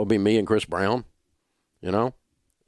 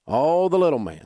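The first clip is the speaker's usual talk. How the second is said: mock whine; 8 semitones higher, 4 dB louder than usual. Radio host mimicking people who blame the system, whining. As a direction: whine it like a hammed-up complainer. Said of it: "they always whine when they're saying it".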